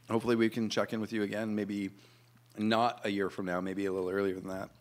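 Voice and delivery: words around a mouthful of cheese; mouth full. Real, not acted. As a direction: still chewing while talking. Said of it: "with my mouth full".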